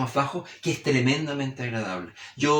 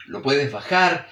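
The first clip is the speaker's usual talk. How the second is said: slow, voice dropping on "bajar"; lowered tone; slower than usual. Shown as a demonstration. Teacher demonstrating tone variation, lowered tone on "bajar". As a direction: let "bajar" sink to illustrate it. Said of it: "Tú puedes variar el tono".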